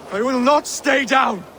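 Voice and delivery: defiant cry. Acted. Defiant after being knocked down.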